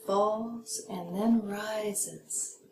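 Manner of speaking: slow, FALLS sliding down, RISES lifting; dipping intonation. Shown as a demonstration. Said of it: "Dipping intonation".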